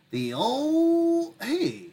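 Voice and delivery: strained, squeezed out on held breath; holding breath. Real, not acted. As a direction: talk while holding your breath. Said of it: "I'm holding my breath".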